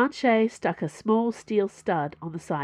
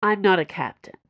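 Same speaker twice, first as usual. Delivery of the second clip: sighing; 4 dB louder than usual. Acted. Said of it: "Dana sighed".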